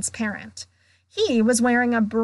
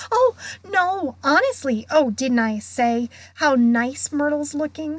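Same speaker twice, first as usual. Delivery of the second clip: higher, overeager reassurance; insistent protest; 4 semitones higher than usual. Acted. Girl reassuring ghost and nudging friends, insistently. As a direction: protest innocence, a touch too keen. Hermione hastily protests innocence.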